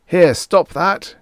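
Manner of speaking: high, loud, slow screech; screeching protest. A narrator's reading. Groversb at the little people wrecking his piano, screeching. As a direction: screech at them to stop. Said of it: "Groversb screeched".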